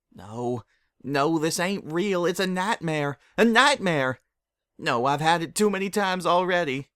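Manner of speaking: high, loud, frantic denial; scared pony refusing the nightmare; panicked denial. Acted. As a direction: shout it away in terror.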